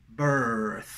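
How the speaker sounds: "birth" falling, with long th; contrast drill. Shown as a demonstration. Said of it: "esa sería la diferencia". ("birth" descendente, con th final)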